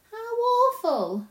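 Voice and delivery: high, loud, drawn-out dismay; gasping little-girl horror, stretched slowly; horrified. Acted. Lucy hears there's never Christmas, appalled.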